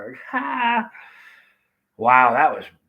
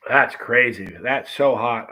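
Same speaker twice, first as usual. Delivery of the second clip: "That's crazy" called out louder, burning; loud amazement; 5 dB louder, slower than usual. Real, not acted. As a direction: exclaim "That's crazy" with a real burn. Reacting to heat, louder take.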